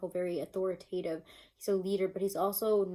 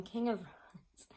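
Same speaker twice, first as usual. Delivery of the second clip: whispering; 5 dB quieter, much slower than usual. Real, not acted. Whispered card name.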